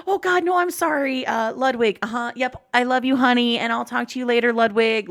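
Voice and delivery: a mom covering a slip, overcompensating; imitating French mom. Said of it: "And she goes".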